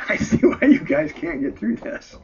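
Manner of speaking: high, loud, breaking voice; real break in composure between takes. Real, not acted. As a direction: reader losing composure, pitch leaping up. Reader breaks up mid-recording.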